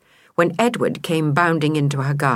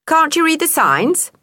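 a lightly voiced scruffy cat, higher and louder; scornful stray cat; 10 semitones higher, 4 dB louder than usual. A narrator's reading. Stray cat taunting Delilah, lightly voiced scorn. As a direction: tease her like a know-all alley cat.

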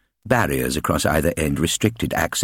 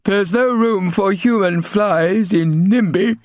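high, cold and flat-out; cold bully; 13 semitones higher, 4 dB louder, slower than usual. Acted. Bully boy deciding the old man must leave, cold. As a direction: say it coldly as a verdict. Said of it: "Ginger said coldly".

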